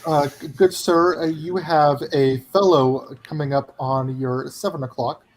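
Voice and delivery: slow, halting mock-British politeness; lightly hammed-up British gentleman engineer; fake British accent. Engineer warns driver of a car behind, in slow fake British accent. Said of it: "with the worst fake British accent".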